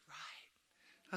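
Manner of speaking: soft breathy whispered "Right"; prompted answer. Shown as a demonstration. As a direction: murmur the expected "Right" almost silently. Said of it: "You're supposed to say".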